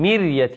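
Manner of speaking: "مرية" as mir-ya with a thin ر; unvelarized r after i in "مرية"; light ra. Shown as a demonstration. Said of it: "فترقق".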